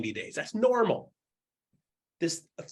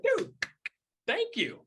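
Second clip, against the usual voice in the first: grateful dude; 14 semitones higher, slower than usual. Retold or imitated. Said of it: "they're gonna be like".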